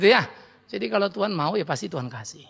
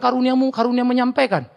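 raised, smug voice claiming the gift of speaking; mock hypocrite; 4 semitones higher, 4 dB louder than usual. Hypocrite excusing himself from doing anything, smug raised voice. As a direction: play the smug talker. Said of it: "Lalu kau bilang".

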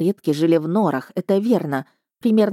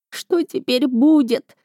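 plaintive; 8 semitones higher, slower than usual. A narrator's reading. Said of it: "тихо и очень жалобно спросил сон".

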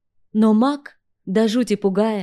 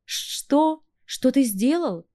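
nervous; 6 semitones higher, much slower than usual. Acted. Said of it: "занервничала я".

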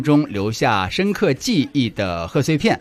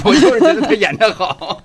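laughing; 10 semitones higher, 6 dB louder than usual. Real, not acted. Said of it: "我从来没觉得他跳得好过".

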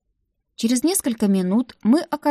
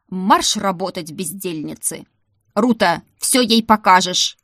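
shouted order; 4 dB louder than usual. Acted. Madam driving maids out.

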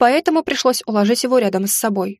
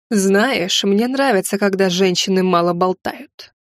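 slow, lightly voiced sneering villain; a touch of cruel amusement; amused dark lord; 3 semitones lower, slower than usual. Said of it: "забавлялся".

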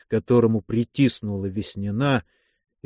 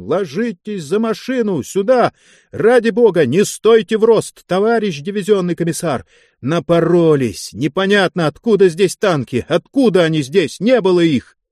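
higher, louder, breathless commands; breathless shouting; 6 semitones higher, 4 dB louder than usual. Acted. Guard chief shouts at the commissar to take cover, breathless. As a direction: bark it out gasping under fire. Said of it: "скомандовал задохнувшимся криком".

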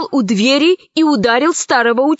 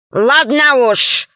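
grumbling; slower than usual. Acted. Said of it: "проворчал Панченго".

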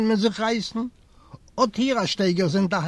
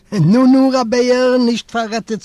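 loud, higher call of "Nu, nu, Rabbeer"; a loud pleading call; 5 semitones higher, 9 dB louder than usual. Acted. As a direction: call out urgently to the old man. Narrator calls out to old man.

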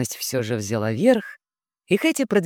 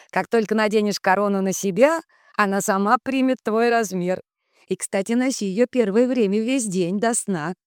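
a hint of a kindly magic spirit, raised; lightly voiced wise spirit; 5 semitones higher than usual. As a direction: speak as a gentle guardian spirit. Magic source Rom speaks. (слегка озвученный мудрый дух)

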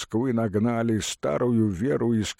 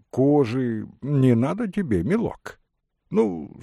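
nosy peasant voice; 4 semitones higher than usual. Acted. Peasant butts into the trade talk.

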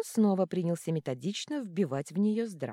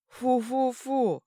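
much higher, louder, slow bleat; bleating monster; 8 semitones higher, 6 dB louder, much slower than usual. A narrator's reading. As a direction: bleat it like a goat. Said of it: "проблеяла голова". (блеяние головы)

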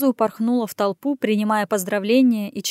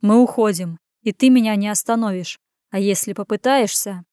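dry; 3 dB louder than usual. Acted. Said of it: "сообщил я сухо".

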